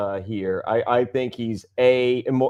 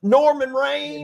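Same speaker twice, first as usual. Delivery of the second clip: put-on much higher, slow old-lady drawl; grandma voice; 11 semitones higher, slower than usual. Imitating grandma naming her favorite wrestler. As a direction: mispronounce it proudly like a grandma. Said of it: "she's like".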